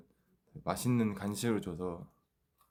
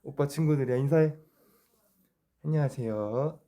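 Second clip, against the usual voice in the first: talking to a dog; 7 semitones higher, 7 dB louder than usual. Real, not acted. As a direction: introduce the pet to friends. Introducing the dog to viewers.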